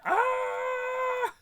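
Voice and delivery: sudden high excited yelp; excited squeal. Retold or imitated. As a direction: squeal with delight. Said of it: "some people who would be like".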